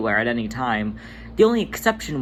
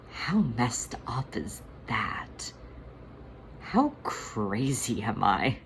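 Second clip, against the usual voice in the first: broken whisper; 2 semitones lower, 8 dB quieter, slower than usual. Acted. Monk breaking down.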